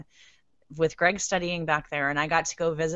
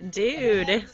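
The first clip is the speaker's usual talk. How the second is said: drawn-out surfer dude; Valley girl; 4 semitones higher, 5 dB louder than usual. Pretend. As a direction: say it like a California kid. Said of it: "sound like a Valley girl".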